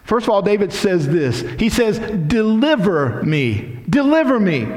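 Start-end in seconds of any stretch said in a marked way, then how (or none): 2.0-4.7 slow, high cry for deliverance; prayerful cry. Acted. David crying out to God, slow high plea. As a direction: plead it, drawn out.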